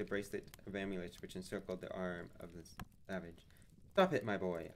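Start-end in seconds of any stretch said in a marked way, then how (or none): 3.9-4.7 raised, urgent command; cried out. Acted. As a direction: stop him with a sharp call. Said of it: "I cried".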